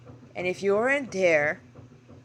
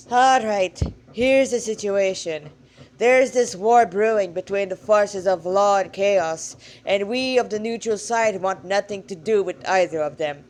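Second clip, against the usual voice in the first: louder, firm Irish-tinged god; skeletal god explaining; 5 dB louder than usual. Acted. Skeletal god explaining the war to the girl, louder and firm. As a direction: lay out the war plainly, as a weary old god.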